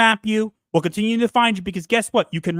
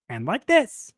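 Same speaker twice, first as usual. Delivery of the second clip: slightly raised character voice; another put-on voice; 3 semitones higher, slower than usual. Shown as a demonstration. Host showing off great voices, another character. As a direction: switch into a different voice. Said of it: "I do great voices".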